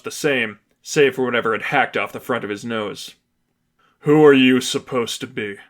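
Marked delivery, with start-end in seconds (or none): 4.0-5.6 frustrated. Acted. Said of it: "His tone was frustrated above all else".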